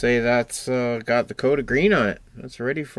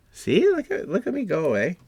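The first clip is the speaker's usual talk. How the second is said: playful boast; 10 semitones higher, 4 dB louder than usual. Pretend. Gleeful boasting at own progress.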